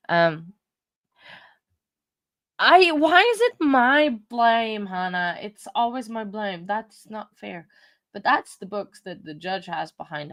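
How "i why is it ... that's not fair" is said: mock whine. Jokey complaint about blame.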